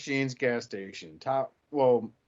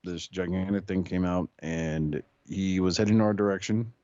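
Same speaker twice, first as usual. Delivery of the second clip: a touch lower, dry police report; deputy's report; 5 semitones lower than usual. Acted. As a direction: give a deadpan officer-on-scene statement. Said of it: "Marion County Sheriff Deputy Streetwise".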